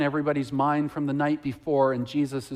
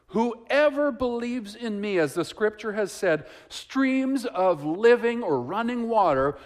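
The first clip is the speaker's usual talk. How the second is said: slow, raised voice, calling out to the crowd; loud proclamation; 6 semitones higher, slower than usual. Acted. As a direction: proclaim it slowly and loudly, like Jesus standing up in the temple. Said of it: "and with a loud voice".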